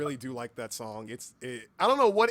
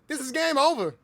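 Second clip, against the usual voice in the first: high, loud overdramatic cry; mock wail; 11 semitones higher, 8 dB louder than usual. Streamer dreading game over, high loud wail. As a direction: cry it out like a disaster. Wailing about ending the game.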